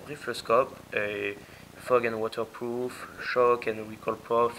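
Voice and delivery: box text read in English with a French accent. Real, not acted. Airsoft reviewer reads English box text, French-accented English. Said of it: "désolé pour mon accent anglais".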